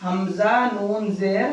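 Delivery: slow, with ن spelled out between ہمزہ and زیر; slow spelling for students. Shown as a demonstration. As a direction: spell it slowly letter by letter. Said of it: "ہجے ایسے بنے گی".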